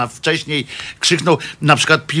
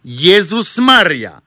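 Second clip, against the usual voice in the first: drawn-out, higher mock cry of Jezus Maria; mock priest's cry; 5 semitones higher, much slower than usual. Priest crying out while falling from the sky, drawn-out mock cry. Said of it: "Ksiądz zdążył tylko krzyknąć".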